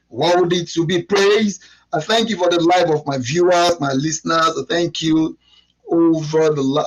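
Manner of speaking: earnest opening prayer, mostly in his talking voice. Acted. Host praying for his viewers before the live stream, earnest prayer. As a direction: give thanks to the Lord before the show.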